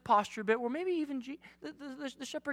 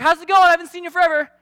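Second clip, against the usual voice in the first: higher, loud, fake-cheerful; mock cheery greeting; 6 semitones higher, 7 dB louder, much faster than usual. Youth pastor greeting a teen, hammed-up cheer. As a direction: ham up the awkward church hello. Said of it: "We're like".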